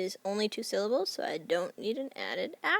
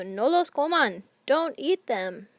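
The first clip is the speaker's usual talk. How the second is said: higher, slow mock scolding; scolding relative; 5 semitones higher, 5 dB louder, slower than usual. Family member catching kids sneaking sandwiches, mildly stern scolding. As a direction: caught sneaking sandwiches, a lightly stern don't. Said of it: "you're not supposed to be eating them".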